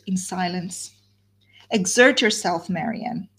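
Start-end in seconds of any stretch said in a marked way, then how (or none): 1.7-3.3 a mildly raised, urgent "Exert yourself"; half-cried appeal to her sister; urgent plea. Acted. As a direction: press her to pull herself together, voice lifted a little. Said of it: "she cried".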